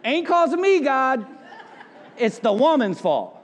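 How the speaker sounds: high, pleading excuse to God; whiny Adam. Retold or imitated. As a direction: shift the blame in a high whine. Adam blaming, comic whiny voice.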